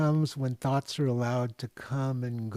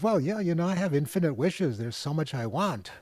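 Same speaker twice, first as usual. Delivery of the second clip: eager man; 5 semitones higher than usual. Retold or imitated. Eager man answers genie.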